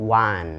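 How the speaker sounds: "wan" with an open A, like the number one; correct pronunciation of won. Shown as a demonstration. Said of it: "สระอาน".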